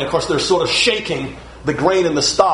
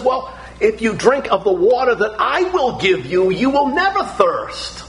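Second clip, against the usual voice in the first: Jesus speaking; 6 semitones higher than usual. Acted. Jesus voiced in sermon.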